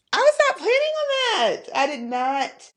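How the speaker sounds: real tears, pitch cracking up high as you laugh it off; tearful. Real, not acted. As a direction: voice jumps high, a fast tearful rush. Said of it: "I'm gonna have to get myself together".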